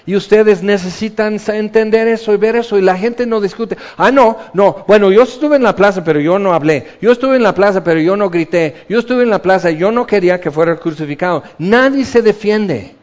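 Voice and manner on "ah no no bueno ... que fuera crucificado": fast, loud hurried denial; defensive excuses. Acted. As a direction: talk your way out of it quickly. La gente se excusa. (excusas rápidas y a la defensiva)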